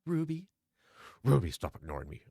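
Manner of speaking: all-caps yell. Acted. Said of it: "all in caps".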